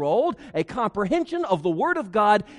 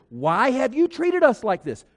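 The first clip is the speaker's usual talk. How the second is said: scolding question; 5 semitones higher, 4 dB louder than usual. Acted. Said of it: "she asked him that question".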